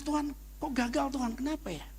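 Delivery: mild, soft pleading, pitched high; a hint of crying out to God; tearful prayer. Father retelling his complaint to God, softly pleading. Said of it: "Saya nangis".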